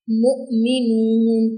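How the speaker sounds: मुमिनून with a sharp catch on the stopped hamza, then a drawn-out ending; recited with a jerk. Shown as a demonstration. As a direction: jolt the hamza in मुमिनून, hold the last vowel. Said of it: "झटका लगाया था".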